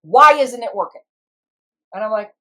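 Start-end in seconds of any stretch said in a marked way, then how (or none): 0.0-1.0 mock outrage. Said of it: "my managers just about have a stroke".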